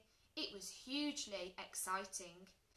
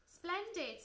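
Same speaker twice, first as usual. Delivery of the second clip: high, pleased teacher's praise; smiling praise; 8 semitones higher, 3 dB louder than usual. A narrator's reading. Teacher praising a pupil's pet, smiling and pleased. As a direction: exclaim it with a smile. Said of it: "smiled their teacher".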